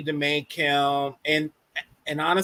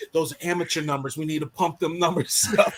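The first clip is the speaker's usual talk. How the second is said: Matthew McConaughey voice. Retold or imitated. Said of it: "in my, uh, Matt McConaughey voice".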